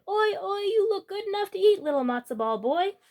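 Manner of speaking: hungry rabbi. Acted. Rabbi tempted by the boy, high hungry cry. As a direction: savour it, lips licked. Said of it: "The rabbi licked his lips and said".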